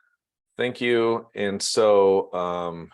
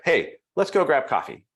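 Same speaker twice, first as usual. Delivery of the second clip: nice way; 5 semitones higher than usual. Shown as a demonstration. Trainer demos a direct coffee invite, nice way. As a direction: friendly, direct invitation, slightly higher. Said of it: "you can say it in a nice way".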